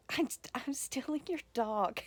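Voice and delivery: breathless whisper of the line; whispered quote. Retold or imitated. Relishing the niece's line again, whispered. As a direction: savour the line in a delighted whisper.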